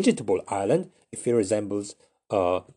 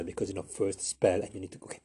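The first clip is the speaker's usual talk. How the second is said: usual speaking voice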